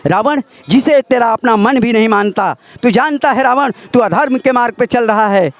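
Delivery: stern epic hero addressing a villain; dramatic Ram dialogue. Acted. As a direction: deliver it like a righteous god-king rebuking his foe. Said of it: "उस समय का है dialogue". (नाटकीय राम संवाद)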